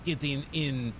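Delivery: cartoon villain with mock Russian accent; Boris. Streamer attempting a cartoon spy blaming his foes, mock Russian accent. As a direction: blame them in a hammy Russian accent. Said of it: "if I could do Boris and Natasha".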